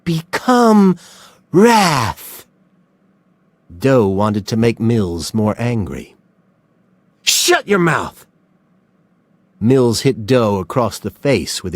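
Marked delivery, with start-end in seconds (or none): 0.0-2.4 high loud taunt; commanding taunt; goading cry. A narrator's reading. Doe goads Mills. 7.2-8.2 angry. A narrator's reading. Mills furious at Doe.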